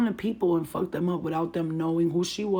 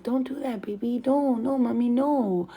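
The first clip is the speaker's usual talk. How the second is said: put-on gently scolding in high baby talk; sweet mommy; 5 semitones higher than usual. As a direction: coax a little child with sweet, higher-pitched no's. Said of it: "I was really sweet with her".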